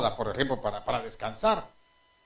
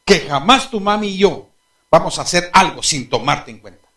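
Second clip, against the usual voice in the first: reassuring father; 3 semitones higher, 9 dB louder than usual. Retold or imitated. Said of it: "Yo le dije".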